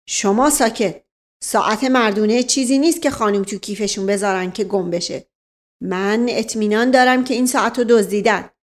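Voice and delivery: lightly voiced self-important officer; pompous officer. Officer lecturing the family, a touch pompous. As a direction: boast about his nose.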